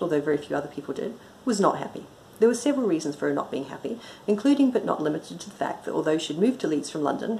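brisk, even audiobook reading; story narration. A narrator's reading. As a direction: read the story aloud with dry composure. Reads own story aloud.

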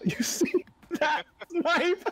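slow mock Australian. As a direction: stretch every word like a cheeky Aussie. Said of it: "pops off in Australian".

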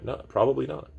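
high, rising, teasing no; high playful answer. Real, not acted. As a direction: toss the no up high, half laughing. Answers own rhetorical question.

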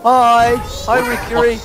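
bright, very high anime squeal. Acted. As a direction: chirp it like an anime girl. Anime character greeting.

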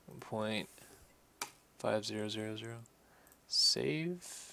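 talking while munching chips; crunching chips. Real, not acted. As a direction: speak through a mouthful of chips. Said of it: "Sorry, I'm eating chips".

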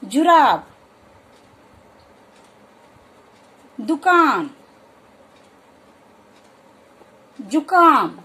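the उ in जुराब, दुकान, जुकाम said very short, each word alone with a falling end; short u demo. Shown as a demonstration. Teacher presenting example words with a short u. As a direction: keep the उ in दुकान brief, not stretched. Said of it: "बिल्कुल थोड़े समय के लिए".

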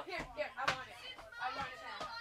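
soft unvoiced whisper. Real, not acted. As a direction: whisper it greedily. Grabbing the lipstick.

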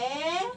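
"آ" held long by itself; long madd vowel. Shown as a demonstration. Teacher sounding out the word's first madd, vowel drawn out. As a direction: sustain the "آ" as one long sound. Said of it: "أكتب المادة في أول الكلمة".

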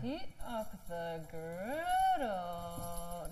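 very slow, drawn-out excited savoring; excited drawl. Real, not acted. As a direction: stretch every word with glee. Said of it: "I'm just excited about the griddle".

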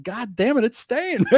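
high, laughing cry of success; delighted laughing surprise; laughing disbelief. Retold or imitated.

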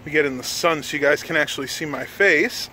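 winded after a bike ride; out of breath. Real, not acted. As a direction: talk while still catching breath. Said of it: "I'm still kinda winded".

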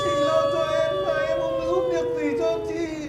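high wailing plea. Acted. Niece wailing to her sister outside, high crying plea. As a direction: cry it out high and pleading.

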